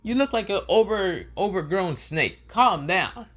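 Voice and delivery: high-pitched, scoffing dragon. Acted. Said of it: "The dragon says".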